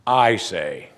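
"I" set out firmly like an exclamation; emphatic "I". Shown as a demonstration. Preacher showing Jesus' exclamation point, stressing "I". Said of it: "it's an exclamation point".

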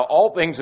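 all things with all leaned on; emphasis on all. Shown as a demonstration. Preacher explaining the Greek word order, stressing all. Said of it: "trying to give emphasis to".

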